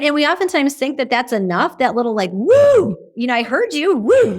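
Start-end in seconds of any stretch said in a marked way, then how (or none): 2.3-4.4 high, loud hollow woo cheer; mock rah-rah. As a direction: give a quick empty cheer. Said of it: "the little rah-rah".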